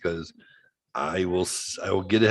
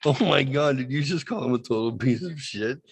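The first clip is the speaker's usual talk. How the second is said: higher, giddy imitation of John; mock delight; 4 semitones higher than usual. Imitating John's glee at the dinner, mildly done. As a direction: play John thrilled at the awkward moment. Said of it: "John's like".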